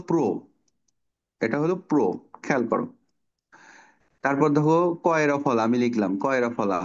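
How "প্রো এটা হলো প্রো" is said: প্রো said as pro, the r sound clear after p; demonstrating pro. Shown as a demonstration. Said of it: "তাহলে এটা কি হলো?". (প্রো উচ্চারণ করে দেখানো)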